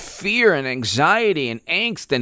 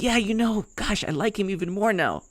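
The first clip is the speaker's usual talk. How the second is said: mock fan; 2 semitones higher, 7 dB quieter than usual. Mock adoring voter.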